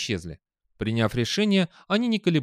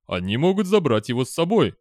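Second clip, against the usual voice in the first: objecting robot; 2 semitones higher, 5 dB louder than usual. A narrator's reading. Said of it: "возразил Дэниел".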